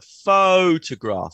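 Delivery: "photograph" with a long, strong first syllable; stress on first syllable. Shown as a demonstration. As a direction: lean hard on the PHO of "photograph". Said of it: "Stress is on the first syllable".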